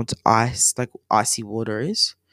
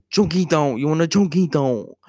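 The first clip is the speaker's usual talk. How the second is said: silly friend voice; 3 semitones higher, 4 dB louder than usual. Retold or imitated. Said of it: "My friend was going".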